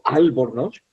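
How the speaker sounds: ALBORNOZ with the weight on AL; wrongly accent the opening AL of ALBORNOZ; stress on first syllable. Shown as a demonstration. Teacher showing it sounds awful, stress on AL in ALBORNOZ. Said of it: "la tilde en la primera sílaba".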